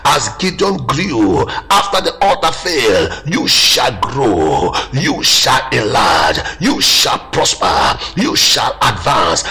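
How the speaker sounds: prophetic declaration. Acted. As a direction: pronounce each promise like a decree over the church. Prophetic declaration over congregation.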